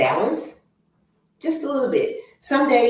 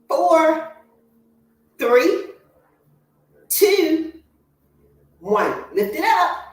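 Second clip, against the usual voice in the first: coach counting reps; 7 semitones higher, much slower than usual. Real, not acted. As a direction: pump the class up with every number.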